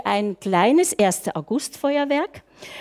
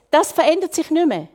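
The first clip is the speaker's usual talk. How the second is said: ordinary talk, nothing marked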